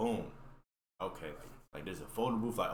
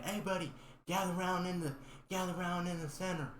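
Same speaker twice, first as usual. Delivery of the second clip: announcer voice; 8 semitones higher than usual. Retold or imitated. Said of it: "They said".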